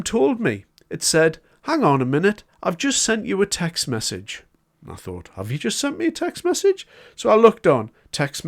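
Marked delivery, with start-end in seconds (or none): 1.6-4.4 a hint of a polite recorded phone voice, a bit higher; automated phone system. Retelling his broadband call to viewers, mildly imitating the automated system. 5.3-6.9 incredulous echo. Retold or imitated. Recalling his own reaction to the automated call, incredulous and much higher. Echoing the system in disbelief.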